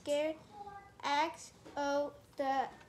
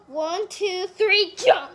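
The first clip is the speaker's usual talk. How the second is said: counting up to a loud shouted jump; expressive shout; 3 semitones higher, 9 dB louder than usual. Real, not acted. Child reading expressively, shouting jump. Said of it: "That was very expressive".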